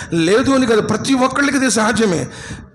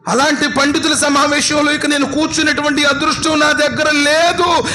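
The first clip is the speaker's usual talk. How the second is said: higher, impassioned grieving cry; anguished lament; 5 semitones higher than usual. Retold or imitated. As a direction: let Umar's sorrow climb and ache. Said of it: "బాధతో ఏడుస్తున్నాను".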